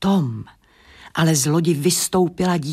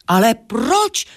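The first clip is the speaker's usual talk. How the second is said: louder, higher, drawn-out protest; annoyed; 5 semitones higher, 5 dB louder, slower than usual. A narrator's reading. Merchant questioning the owls' advice, annoyed. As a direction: demand it crossly, stretching the words. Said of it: "zlobil se kupec".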